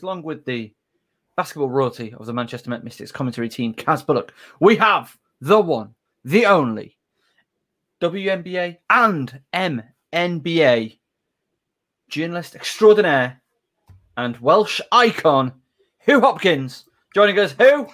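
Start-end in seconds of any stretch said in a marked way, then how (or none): 1.4-17.5 grand announcer intro. Acted. 17.6-17.9 stadium announcer. Acted. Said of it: "stadium effect".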